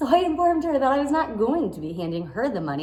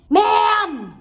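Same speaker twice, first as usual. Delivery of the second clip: a louder, higher call to get her attention; sharp call; 8 semitones higher, 6 dB louder than usual. Retold or imitated. Owner calling out across the playroom to a rude mother, firm raised call. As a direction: snap "Ma'am!" to cut her off.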